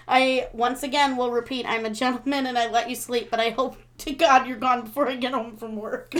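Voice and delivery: even read-aloud, settling as it goes; reading a shout-out. Acted. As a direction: read the listener's message out in one steady run. Reads out shout-out message.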